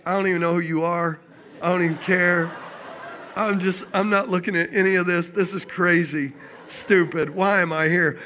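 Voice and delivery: low-pitched, tight-lipped protest; mock stern refusal. Embarrassed driver refusing the girl's attention, low mock-stern protest. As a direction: act out shutting someone out, low-pitched. Retold refusal to look at girls.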